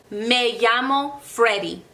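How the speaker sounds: "Me llamo" said slowly with a Spanish "ll"; Spanish model phrase. Shown as a demonstration. Teacher modelling a reply for students, slow and clear. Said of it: "Your response or their response would be".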